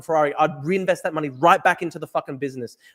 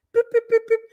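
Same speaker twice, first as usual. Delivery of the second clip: imitated beeping; 3 dB louder than usual.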